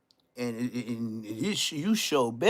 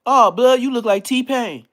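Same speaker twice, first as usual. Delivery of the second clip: imitating Blood; 9 semitones higher, 9 dB louder, slower than usual. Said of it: "That's exactly what Blood said".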